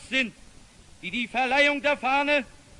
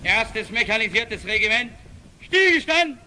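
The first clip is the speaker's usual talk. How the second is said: barked drill commands; 3 semitones lower than usual. Real, not acted. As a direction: bark the order across the square. Kommandeur gibt Befehl beim Appell. (gebellter Exerzierbefehl)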